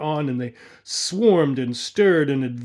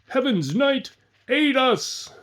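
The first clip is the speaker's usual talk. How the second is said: shouted plea; 10 semitones higher, slower than usual. A narrator's reading. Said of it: "thousands shouting".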